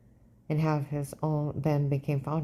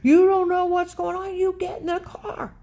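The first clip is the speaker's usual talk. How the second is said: much higher, louder hysterical whine; girl meltdown; 13 semitones higher, 6 dB louder than usual. Retold or imitated. Dave having a meltdown in the parking lot, hysterical. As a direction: ham up a shrill panic attack. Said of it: "He's having the biggest girl meltdown".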